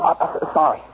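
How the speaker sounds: stammered, sniveling apology. Acted. Husband apologises to disgusted wife, sniveling. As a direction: apologise weakly through sniffles. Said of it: "Stop sniveling".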